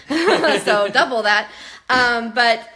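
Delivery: slow laugh through "So double that". Real, not acted. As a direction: chuckle while saying "So double that". Laughing at the cost.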